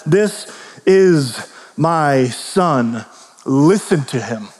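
very slow, solemn command; voice from the clouds. Acted. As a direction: speak it slowly as heaven's command. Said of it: "a voice from the clouds has said".

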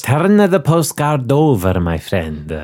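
a lightly put-on Italian accent, careful and measured. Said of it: "to do the accent".

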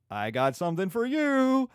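mother telling Juliet of a suitor; mock mother, excited. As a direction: tease out the big news. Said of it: "is like".

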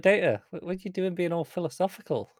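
high, teasing nudge that slows right down at the end; Riker teasing. Retold or imitated. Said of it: "He's like".

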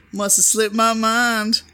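slow, high imitation of a sly kid; devilish. Mimicking the vacation catchphrase, devilish. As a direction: draw it out with devilish relish. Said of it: "devilish way".

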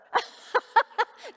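sudden high laugh; surprised laugh. Real, not acted. Nurse in audience answers.

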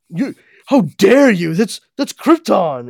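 high, loud mock outrage; outraged Jor-El. Jor-El outraged at his wife, mock shouting in a high voice. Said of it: "he's like".

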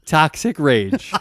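slow, dragged-out bitter words; mock rage. Host joking about his chest pain with mock-bitter slowness. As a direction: savor the word rage like a villain. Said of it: "Just rage".

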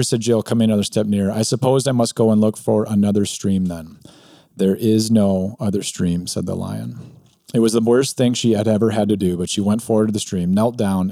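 reading a story aloud with lightly voiced characters. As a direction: read it like a bedtime tale for listeners. Reads Narnia passage aloud.

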